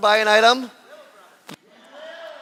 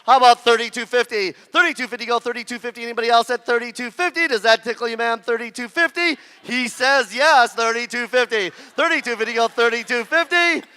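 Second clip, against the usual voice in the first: rapid auctioneer bid calling; 3 dB quieter than usual. Real, not acted. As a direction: roll through the bids like an auctioneer.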